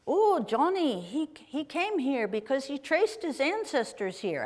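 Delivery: badly faked thick Scottish accent; attempted Scottish accent. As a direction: have a go at a singsong Scottish accent. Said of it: "in a very thick accent".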